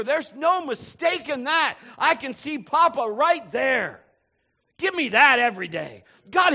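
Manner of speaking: loud, high, driving sermon voice; full-force preaching. Acted. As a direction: preach it out to the congregation.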